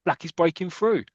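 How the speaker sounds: high-pitched urgent call; spectator calling out. Acted. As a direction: grab everyone's attention mid-match. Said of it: "one of the crowd says".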